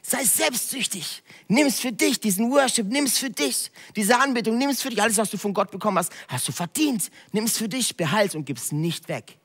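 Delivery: high, wheedling devil voice; hammed-up high devil whispering temptations; the devil tempting. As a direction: tempt them selfishly as the devil. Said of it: "Der Teufel sagt dir".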